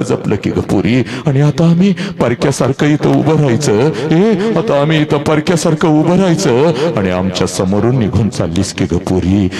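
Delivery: a mother's lament, keening over her daughter; a mild lament for the leaving bride; mother's wail. Acted. Mother cries to departing daughter, a lightly voiced lament. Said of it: "हंबरडा फोडत तुझी आई म्हणते".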